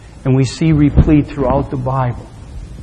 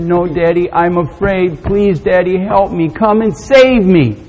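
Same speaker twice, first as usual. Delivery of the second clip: mildly acted fearful plea; plead, rising toward the final cry; frightened pleading; 5 semitones higher than usual. Terrified boy begging his daddy for rescue, frightened plea. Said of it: "was so terrified and petrified".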